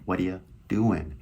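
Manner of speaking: "What are you doing" linked up loosely; easygoing run-together "What are you doing"; casual American flavor. Shown as a demonstration. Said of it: "Really put in that flavor".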